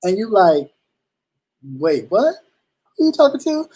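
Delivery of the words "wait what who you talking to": rising to a high shocked question; taken aback by a rude clerk; indignant surprise. Retold or imitated. Customer startled by a rude cashier, pitch jumping high. Acting a rude service worker encounter.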